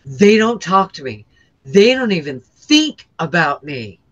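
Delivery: lightly voiced disappointed God. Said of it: "and he goes".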